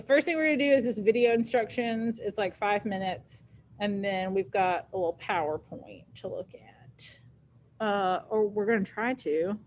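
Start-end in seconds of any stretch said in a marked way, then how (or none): 3.8-7.8 quiet aside. Real, not acted. Aside while setting up.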